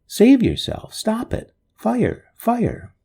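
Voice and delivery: terrified shout. Acted. Man on fire screaming a warning to himself. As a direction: yell the warning at full pitch. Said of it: "I shouted".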